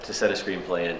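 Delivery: dismissive receptionist in fake English accent; bad English accent. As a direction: brush the caller off in amateurish English tones. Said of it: "do a bad English accent".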